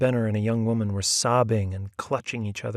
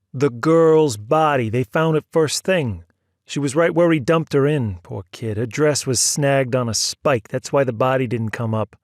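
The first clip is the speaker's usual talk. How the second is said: impatiently; 3 semitones higher, 7 dB louder than usual. A narrator's reading. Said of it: "Steinberg said impatiently".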